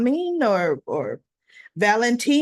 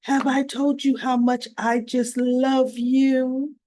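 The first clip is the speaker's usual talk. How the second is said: sweet talk; 3 semitones higher, slower than usual. Retold or imitated. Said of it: "she goes".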